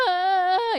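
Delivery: high, loud pretend crying; mock ghostly wail. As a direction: burst into a hammed-up wail. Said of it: "슬피 우는 귀신의 곡선". (슬피 우는 귀신 흉내로 높게 울부짖기)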